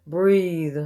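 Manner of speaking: solemn ode with lifted openings, falling line ends; poetry reading. Acted. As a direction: recite an elegy, pausing after each phrase. Reads own poem aloud.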